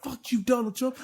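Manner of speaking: half-strength indignant yell; retold yelling. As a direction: act out yelling at someone who ignores you. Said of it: "I'm yelling at this bitch".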